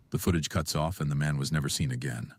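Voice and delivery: ominous documentary narration; true crime narrator. Acted. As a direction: deliver it like a spooky voiceover. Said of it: "Please, please. The ending of that".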